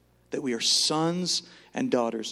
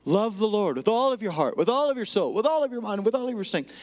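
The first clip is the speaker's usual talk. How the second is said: proclaiming; 7 semitones higher than usual. Acted. Quoting the great commandment.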